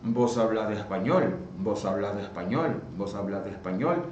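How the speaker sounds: Vos said with a B sound before hablas; rising question, fading; voseo with vos. Shown as a demonstration. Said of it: "Poderia colocar dizendo".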